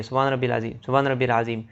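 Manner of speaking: سبحان ربی العظیم gabbled fast, the syllables swallowed; rushed recitation. Shown as a demonstration. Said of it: "بہت سے لوگ یہ جلدی جلدی پڑھتے ہیں". (سبحان ربی العظیم جلدی جلدی، غلط طریقے سے)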